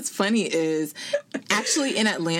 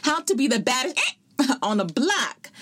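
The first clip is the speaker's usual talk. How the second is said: laughing; 8 semitones higher than usual. Real, not acted. Laughing through intro.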